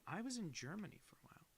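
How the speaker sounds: unvoiced hushed whisper. Real, not acted. Streamer whispering a viewer's message aloud. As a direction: breathe it out as a secret. Muttering chat message to self.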